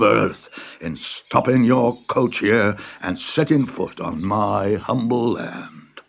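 lightly voiced old farmer, slow and fawning; bow and scrape with each word, slowly; humble farmer. A humble farmer flattering the Tsar, slow and fawning.

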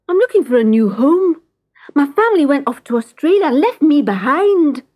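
wistful cat. Acted. Cat explains he's abandoned.

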